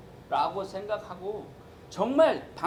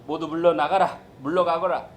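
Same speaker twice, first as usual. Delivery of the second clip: commanding Jesus; 6 dB louder than usual. Retold or imitated. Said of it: "예수님께서 뭐라고 하시냐면".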